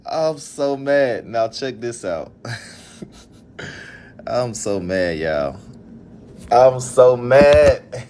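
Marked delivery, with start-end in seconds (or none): 0.1-1.3 slow, drawn-out fed-up sigh; slow weary complaint; exasperated. Real, not acted. 6.5-8.1 very slow, stretched-out venting; slow fed-up moan; exasperated. Real, not acted.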